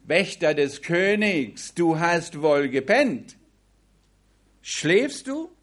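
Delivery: loud, rising call across the valley. Acted. David calls across the valley to wake Abner, loud. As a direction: shout up at the sleeping guard.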